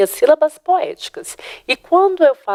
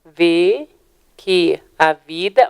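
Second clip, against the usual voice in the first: slow scansion; 3 semitones lower, much slower than usual. Shown as a demonstration. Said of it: "bora lá".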